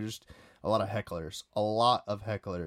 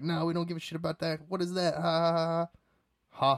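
higher, fast jeering with fake laughter; mocking hecklers; 9 semitones higher than usual. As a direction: laugh them off like a snide heckler. Hecklers' reply, voiced mockingly.

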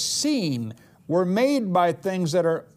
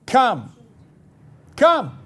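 louder and higher on the second Come; rising loud declaration; 6 semitones higher, 6 dB louder than usual. Acted. Preacher to congregation, rising shouted command.

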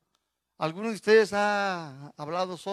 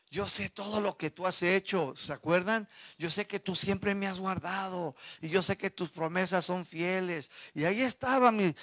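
David praying. Retold or imitated. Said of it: "a hablar con Dios".

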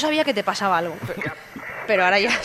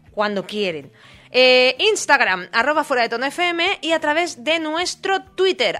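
radio announcer. Acted. Radio host reads contact info.

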